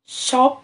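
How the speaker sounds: شوب said loud and clear as one beat; teacher pronouncing شوب for the class; word said for counting. Shown as a demonstration. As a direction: sound out شوب as a single syllable. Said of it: "تعال نجرب كده كلمات زي كلمة".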